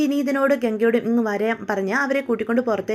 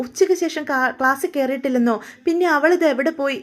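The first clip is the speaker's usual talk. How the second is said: mild crying; 4 semitones higher than usual. Acted. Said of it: "നെഞ്ച് തട്ടിച്ച് കരയുക".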